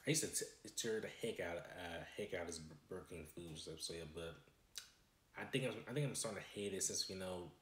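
talking while chewing fries; eating between words; mouth full. Real, not acted. Seen 1: Hand repeatedly brings small food to mouth while talking throughout.

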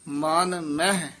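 slow ਮਨ ਮਹਿ, then stop; brief halt after. Shown as a demonstration. Teacher marking a phrase break, slow ਮਨ ਮਹਿ then halt. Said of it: "ਇੱਥੇ ਠਮਕ".

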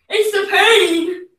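slow laugh through shivers; laughing in pain. Real, not acted. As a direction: laugh it out while freezing.

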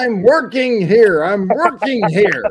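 loud, high New York yell; New York accent. Acted. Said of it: "in a New York accent".

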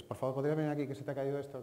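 quick courteous request; polite request. Shown as a demonstration. Teacher repeats the polite phrasing, courteous. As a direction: say it nicely and move on. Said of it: "Pero tú le dices".

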